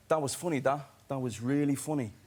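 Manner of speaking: put-on Irish accent. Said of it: "can't really do an Irish accent".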